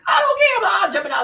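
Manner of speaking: laughing and loud, a bit fast. Real, not acted. Ranting about her Gemini husband, laughing loudly.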